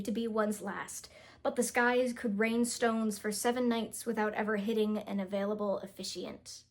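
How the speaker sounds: steady read of "Wartime weddings", "emphatically" said right; second try reading. Shown as a demonstration. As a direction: read it again, clean this time. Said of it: "let me try again".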